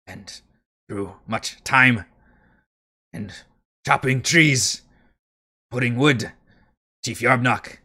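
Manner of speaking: lightly voiced goblin, grudging and broken; a hint of a grudging goblin guard; begrudging goblin. Goblin guard grudgingly answering Thimbleweed's questions, lightly voiced.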